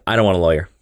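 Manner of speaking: low, deadpan villain refusal; Purple Man. Acted. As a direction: drop the pitch for an unbothered villain. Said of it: "I love your Purple Man voice".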